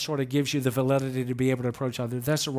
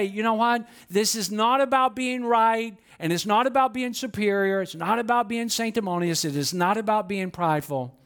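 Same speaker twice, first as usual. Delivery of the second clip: raised, earnest and measured, each "about" leaned on; sincere model reply; 4 semitones higher than usual. Shown as a demonstration. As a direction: say it like you mean it, openly. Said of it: "then just say".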